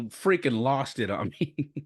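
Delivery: drawn-out, amused disbelief; laughing. Real, not acted. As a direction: laugh breaking into the last words. Laughs as he tells it.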